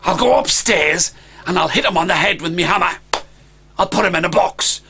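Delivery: put-on a young dragon hatching a plan; scheming dragon boy. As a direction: lay out the plan with relish.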